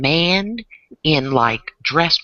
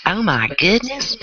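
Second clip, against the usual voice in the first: southern accent; 4 semitones higher than usual. Shown as a demonstration. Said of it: "my little southern accent".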